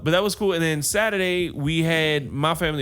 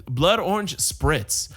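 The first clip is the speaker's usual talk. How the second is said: slow careful recall; much slower than usual. Shown as a demonstration. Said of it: "uh, no, what is".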